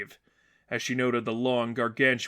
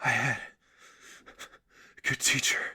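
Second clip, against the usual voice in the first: slowly; 3 dB quieter than usual. A narrator's reading. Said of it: "Cassandra said slowly".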